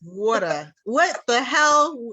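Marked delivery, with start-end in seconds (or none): 0.0-0.7 Brooklyn accent. Real, not acted. Repeats her Brooklyn-accented word.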